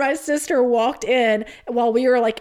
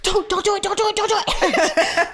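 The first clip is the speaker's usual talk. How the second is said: pleading; 8 semitones higher than usual. Retold or imitated. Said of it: "I was like".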